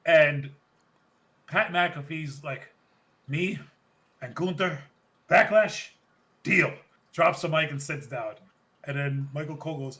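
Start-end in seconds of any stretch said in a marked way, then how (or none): 3.3-6.7 louder, punchy acceptance; mock shout. Imitating McAfee before dropping the mic, loud. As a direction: slam it down like a promo.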